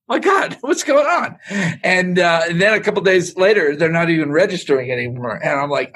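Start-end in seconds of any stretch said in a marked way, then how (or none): 0.1-1.4 laughing amazement. Retold or imitated.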